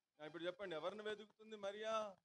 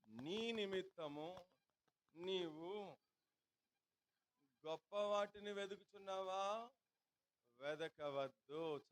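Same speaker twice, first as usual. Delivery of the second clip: solemn scripture reading; 4 dB louder, slower than usual. Acted. Preacher reads the scripture verse.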